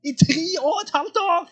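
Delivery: I tre og et halvt år, high and loud, falling hard on år; climactic shout. Shown as a demonstration. Preacher repeats to listeners how long the revival ran, shouting it. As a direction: land the phrase like a sermon climax.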